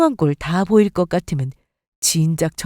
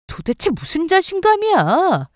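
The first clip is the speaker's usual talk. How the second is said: scornful demand; 8 semitones higher than usual. Acted. Wife scorning husband.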